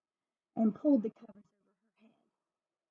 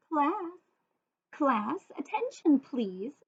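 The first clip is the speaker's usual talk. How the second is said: high, raised teacher call; calling class; 5 semitones higher, slower than usual. Acted. Principal quieting the class, raised call. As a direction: call the room to order.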